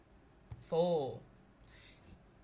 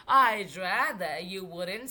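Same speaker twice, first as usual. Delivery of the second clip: deep gravelly Bigfoot; 3 semitones lower, 4 dB louder, slower than usual. Acted. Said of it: "in a deep, gravelly voice".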